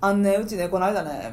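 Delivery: Wakayama speech peppered with "ね"; Wakayama dialect. Shown as a demonstration. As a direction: lightly imitate a Wakayama friend. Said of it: "めっちゃね多い". (「ね」の多い和歌山弁で)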